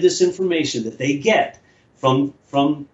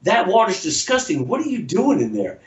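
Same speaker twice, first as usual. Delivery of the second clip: put-on higher-pitched young kid calling out; kid's voice; 7 semitones higher than usual. Kid on a motorcycle calling to the man in the lake. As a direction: play a cheeky kid on a motorbike. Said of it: "he looks at me and he goes".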